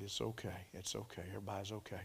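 low, soft, soothing voice; quietly calm a frantic mother; retold reassurance. Preacher retelling how he calmed the frantic mama, softly reassuring.

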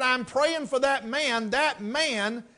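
put-on slow, earnest little boy's voice; a boy in a tent meeting explaining his prayer slowly; child's earnest words. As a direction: draw it out slowly like a worried child. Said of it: "He said".

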